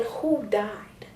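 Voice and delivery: a whispered inner thought; hushed inner voice. Retold or imitated. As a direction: whisper it to yourself. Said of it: "I'm thinking".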